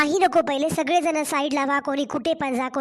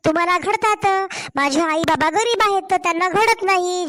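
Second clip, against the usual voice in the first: heated, indignant back-talk to her mother-in-law; angry daughter-in-law; 3 semitones higher than usual. Acted. Daughter-in-law snapping back at her mother-in-law over her parents' gifts, heated. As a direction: stand your ground, voice raised, hurt and defiant.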